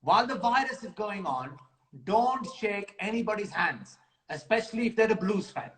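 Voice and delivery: lightly voiced community announcement; Mister Khan impression. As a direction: deliver a mock public warning in character. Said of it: "Message from Mister Khan".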